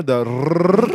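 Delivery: a long trilled rrrr; rolling R. Shown as a demonstration. Mocking the caller's rolled R, a long trilled rrrr. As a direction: roll the rrrr hard and long. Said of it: "the Rolling R".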